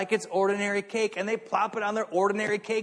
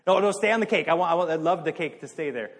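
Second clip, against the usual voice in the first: playful protest; 5 dB louder, faster than usual. Real, not acted. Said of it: "I just switched from cake".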